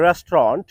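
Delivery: রেস্টুরেন্ট said rest-ron, two syllables; correct pronunciation. Shown as a demonstration. Teacher modelling restaurant for learners. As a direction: clip it short. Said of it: "সঠিক উচ্চারণ হবে".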